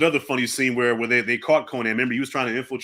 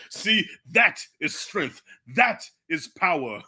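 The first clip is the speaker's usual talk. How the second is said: mock villain grandeur; 3 semitones higher, slower than usual. Imitating Thulsa Doom's speech.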